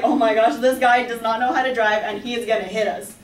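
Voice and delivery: loud alarmed outburst at the sliding car. Retold or imitated. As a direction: shout the warning, he's going to hit us. Car sliding toward them.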